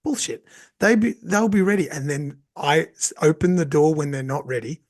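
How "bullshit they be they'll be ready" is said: dismissive retort. Retold or imitated. Teacher scoffing at a parent's worry, dismissive. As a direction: brush off the complaint with a scoff.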